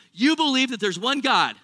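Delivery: sarcastic quote from scripture. Retold or imitated. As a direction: say it with a dry sneer. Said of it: "notice his sarcasm here".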